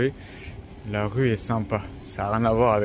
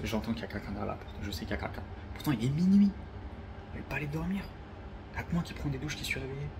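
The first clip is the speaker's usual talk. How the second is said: scared; 10 dB quieter than usual. Real, not acted. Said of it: "j'ai trop les morts".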